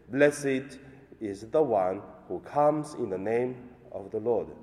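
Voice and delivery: solemn liturgical reading; Gospel reading. Acted. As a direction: proclaim the Gospel at Mass.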